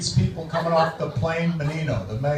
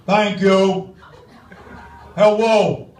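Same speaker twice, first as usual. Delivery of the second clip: Menino impression; 4 semitones higher than usual. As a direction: stumble through a speech like Mayor Menino. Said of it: "my tribute to the outgoing mayor, Tom Menino".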